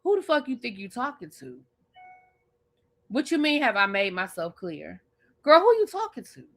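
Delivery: mock outrage building to a shout; pretend comeback, building. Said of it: "I would have been like".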